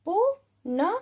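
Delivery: पुनः with a rising breathy ह at the end; visarga demo. Shown as a demonstration. Teacher reading a word aloud to children, ending पुनः on a breathy ह. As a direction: sound पुनः out, finishing on a puff of ह. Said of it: "तो कैसे पढ़ेंगे अब हम इसको?".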